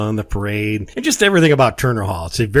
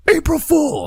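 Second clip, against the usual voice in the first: gotcha; 3 dB louder than usual. Retold or imitated. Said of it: "And then I go".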